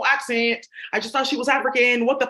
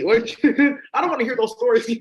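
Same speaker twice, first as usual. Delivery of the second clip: louder, laughing through the words; laughing protest; 3 semitones higher, 6 dB louder, slower than usual. Real, not acted. Speaker tells viewers she won't hear it, laughing loudly. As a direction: laugh it out while refusing.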